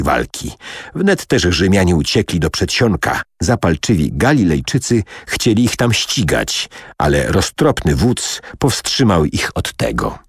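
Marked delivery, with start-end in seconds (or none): none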